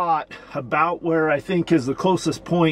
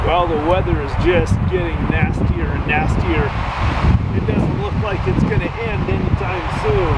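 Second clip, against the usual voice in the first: raised voice against wind and rain; talking over storm; 4 semitones higher, 4 dB louder than usual. Real, not acted. Speaking over storm outdoors.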